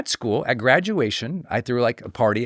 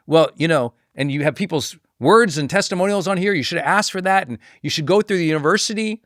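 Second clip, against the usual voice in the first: higher-pitched, mildly indignant lecture; upset scolding; 5 semitones higher than usual. Retold or imitated. Teacher scolding graduate over skipping the process, mildly upset. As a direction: imitate an upset official listing the rules. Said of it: "this person was really upset about it".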